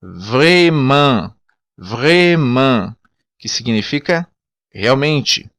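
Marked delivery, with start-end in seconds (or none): 0.0-2.9 vraiment with a throaty r; vraiment, back-of-throat r; Creole word. Shown as a demonstration. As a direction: vraiment said with a guttural r. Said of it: "ainda mais acentuado no crioulo".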